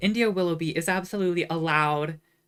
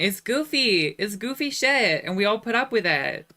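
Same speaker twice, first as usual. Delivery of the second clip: loud, higher-pitched emphatic rant; campaign rant; 5 semitones higher, 5 dB louder than usual. Acted. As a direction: raise the voice and hammer the point. Carrying on the imagined campaign rant.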